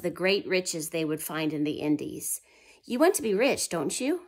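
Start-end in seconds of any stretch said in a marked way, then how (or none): 2.8-4.2 coaxing question. Acted. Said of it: "he asked them".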